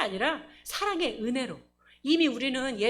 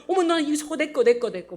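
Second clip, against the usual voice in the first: louder, grabby cries of a shopper hooked on a deal; half-hammed shopper snatching up everything; mock greedy shopper; 3 semitones higher, 5 dB louder than usual. Mimicking a home-shopping viewer grabbing items, mock excited. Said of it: "막 이렇게".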